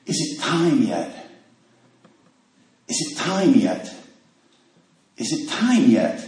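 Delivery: quiet, slow, repeating it in a daze; slow dazed mumble. Retold or imitated. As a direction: murmur it like a sick man asking over and over. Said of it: "he's saying".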